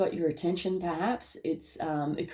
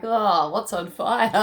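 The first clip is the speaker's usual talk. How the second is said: mock alarm; 5 dB louder, slower than usual. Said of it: "you're like".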